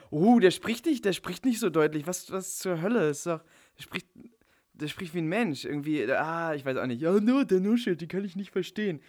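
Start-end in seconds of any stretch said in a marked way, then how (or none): 0.1-2.1 mocking whiny critic. 7.0-9.0 mocking whiny complaint.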